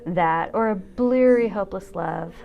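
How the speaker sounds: slow, measured reading of a poem over music. Acted. Dancer reads a poem to her viewers, measured and wry. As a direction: let each image land, unhurried.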